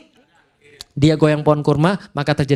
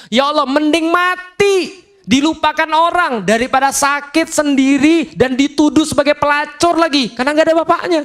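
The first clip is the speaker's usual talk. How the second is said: high, slow pleading cry to God; anguished lament; 9 semitones higher than usual. Acted. Maryam in labour begging God she had died, high slow lament. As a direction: plead in despair, voice pitched high.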